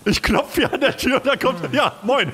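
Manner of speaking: high, slow, still rattled; shaken after a scare. Real, not acted. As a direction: talk shakily after a fright. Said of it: "hab ich mich erschrocken".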